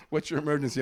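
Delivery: a hint of phone operator; emergency operator. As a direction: imitate a dispatcher asking a routine question.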